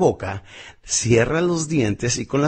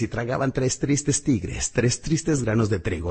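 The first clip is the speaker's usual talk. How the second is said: slow tongue twister; slower than usual. Shown as a demonstration. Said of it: "Lo repites una y otra vez".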